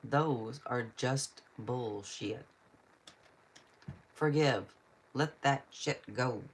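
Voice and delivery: slow, measured read-out with weighted pauses; deliberate card reading. Acted. Card reader giving a viewer blunt advice, deliberate. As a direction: read each phrase as a separate pronouncement. Reads swear card aloud.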